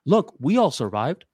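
called out high, a mock yell to a far friend; retold yell across. Friends yelling across the zipline to a scared man, high mock yell. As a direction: shout encouragement high across the gap. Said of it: "yelling at him from across".

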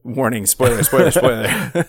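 hammed-up alert to listeners, drawn out; mock spoiler alarm. Podcast host jokingly warns listeners about spoilers, hammed-up alarm call.

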